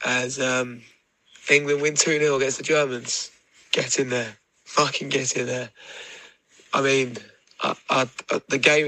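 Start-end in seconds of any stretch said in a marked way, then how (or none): 0.0-5.7 drag queen voice. Real, not acted. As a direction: drag queen voice after a big day. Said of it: "Return of the drag queen voice of feeling like shit".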